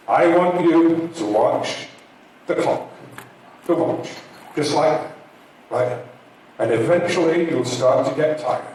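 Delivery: a lightly done hypnotist. Acted. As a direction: lull them toward sleep. Hypnotist lulling audience to sleep.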